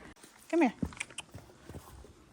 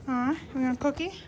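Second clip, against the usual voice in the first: talking to a dog; 3 semitones higher than usual. Real, not acted. Offering dog a cookie.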